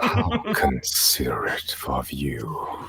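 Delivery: slow, hushed mock-polite menace; a dragon mocking the thieves; menacing hiss. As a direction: purr it with contempt, very slowly. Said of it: "very deep, very familiar, threatening voice".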